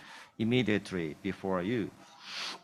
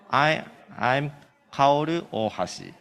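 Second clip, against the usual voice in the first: louder, careful introduction; slowly and loudly; 3 semitones higher, 5 dB louder than usual. Shown as a demonstration. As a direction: say it louder for the room. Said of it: "Speak slowly and loudly".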